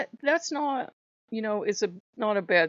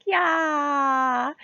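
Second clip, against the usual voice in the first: casual Loki; 9 semitones higher, 5 dB louder than usual. Retold or imitated. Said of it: "He's like".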